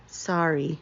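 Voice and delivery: meek apology; sheepish sorry. Acted. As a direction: shrink away after being scolded. Skunk scolded by Bunny.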